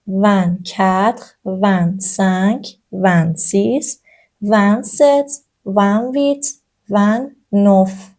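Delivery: slow French numbers; slow drill. Shown as a demonstration. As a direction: count them out slowly for repeating. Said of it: "به همین شکل ادامه داره". (شمارش آهسته و شمرده)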